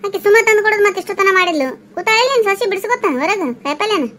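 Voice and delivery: peeved household bickering; cross retort. Acted. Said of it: "ಅಷ್ಟೇ ಯಾಕೆ ಸಿಟ್ಟಿಗೆ".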